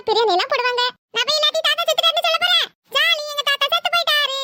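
put-on boy delighted that grandpa died; gleeful boy. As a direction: bounce with glee like a naughty kid. Boy gleeful about grandpa dying.

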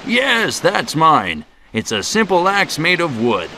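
high happy recognition; light up, high, at the sight; glad lumberjack. Acted. Lumberjack recognising his own axe, high glad.

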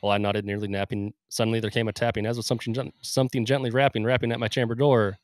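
dramatic poetry reading; poem recital. Acted. Recites The Raven.

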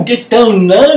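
loud, high yell of get down now; shouted command. Retold or imitated. Instructor shouting at the trainee under the burning shack. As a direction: bark it at her in a panic. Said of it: "screaming and shouting".

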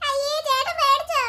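a little sister laughing at her brother for getting scared; teasing laugh. Acted. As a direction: laugh at him for being scared.

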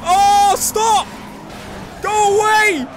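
high, loud pleading shouts; drawn-out, high cries of frustration; exasperated yelling. Real, not acted. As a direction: yell desperately at a rival to back off. Rival keeps harrying the player.

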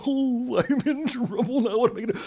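high, anxious half-laugh; nervous laugh. Acted. Girl fretting to herself that she is in trouble, nervous laugh. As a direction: fret with a nervous giggle.

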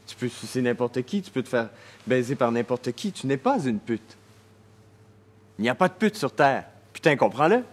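building to a high, loud shout; exasperated, rising plea to be understood; angry outburst. Acted. Acted outburst, insisting to be understood.

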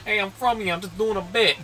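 mock protest. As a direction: plead your case in character. Pretend reply to the local lady.

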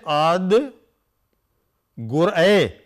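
gur a, each vowel drawn out; careful Punjabi recitation. Shown as a demonstration. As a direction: sound out ad gur a syllable by syllable. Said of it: "pay enough attention to the vowel structure".

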